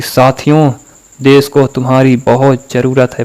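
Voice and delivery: half-hearted mock speech, no fire; limp, slack delivery. Shown as a demonstration. Netaji imagined addressing his followers limply, slack and casual. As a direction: address the crowd without any conviction. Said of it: "बहुत ढीला ढाला बोल रहे होते".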